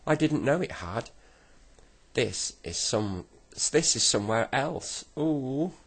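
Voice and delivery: high-pitched, bewildered dismay; shocked wail. A narrator's reading. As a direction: wail it high, in rising alarm. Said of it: "shrieked the Saucepan Man".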